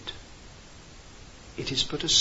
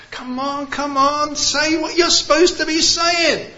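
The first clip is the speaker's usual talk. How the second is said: frantic urging; 10 semitones higher, 5 dB louder than usual. Retold or imitated. Frantic teachers urging forgotten line.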